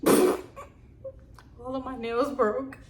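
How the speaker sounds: laughing at herself. Real, not acted. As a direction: laugh through it, embarrassed.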